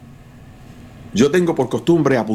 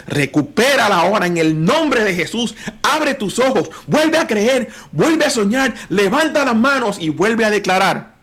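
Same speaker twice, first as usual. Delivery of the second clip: high, urgent call to believe; rally the listeners to faith; preacher exhorting the tired faithful, fervent; fervent preaching; 8 semitones higher than usual. Acted.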